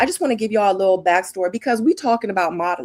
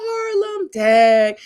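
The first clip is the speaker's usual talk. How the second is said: much higher squeal of surprise; surprised; 3 semitones higher, 6 dB louder, much slower than usual. Real, not acted. Reacting to the daughter's name, a high surprised cry. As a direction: react like the name caught you off guard.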